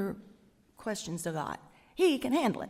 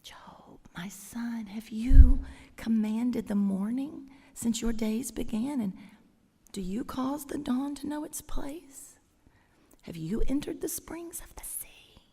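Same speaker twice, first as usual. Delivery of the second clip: tender whisper. Acted. God whispering to Job as a son, tender whisper. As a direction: whisper the questions lovingly. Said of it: "Here's another one".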